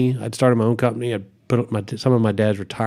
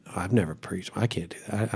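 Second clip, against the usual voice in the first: inner panic; 3 semitones lower, 11 dB quieter than usual. Retold or imitated.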